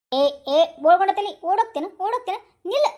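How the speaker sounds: loud angry call after the thief; shouting after him. Acted. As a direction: yell to stop him. Woman yells at fleeing thief.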